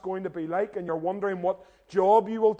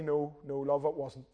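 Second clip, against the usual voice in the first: sheepish, softer admission; 4 semitones lower, 6 dB quieter than usual. Retold or imitated. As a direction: own up quietly, embarrassed. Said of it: "very sheepishly you have to say".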